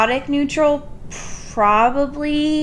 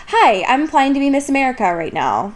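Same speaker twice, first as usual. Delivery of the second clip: pageant contestant voice; 2 semitones higher, faster than usual. Retold or imitated. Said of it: "such a, like".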